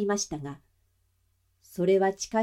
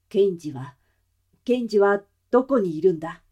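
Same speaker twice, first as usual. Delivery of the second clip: urgent demand; 5 dB louder than usual. Acted. Father demands his son.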